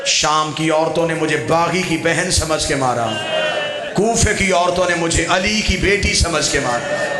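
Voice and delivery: grieving preacher's chant, voice full and carrying; mourning sermon. Acted. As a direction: tell the Karbala lament to a mourning crowd. Majlis lament narration.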